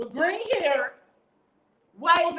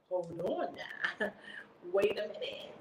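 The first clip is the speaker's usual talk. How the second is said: flirty hoe mode; slower than usual. Retold or imitated. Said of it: "went into hoe mode".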